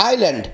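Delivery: "আইল্যান্ড" with no S sound; silent S. Shown as a demonstration. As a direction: say "আইল্যান্ড" gliding from "ai" to L. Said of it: "এস এর উচ্চারণ নেই". ("আইল্যান্ড"-এ এস অনুচ্চারিত)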